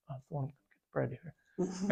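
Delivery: very soft, secretive whisper; whispered reply. Retold or imitated. Jesus confiding in John at table, whispered. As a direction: whisper it back to one listener only. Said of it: "like, whisper back".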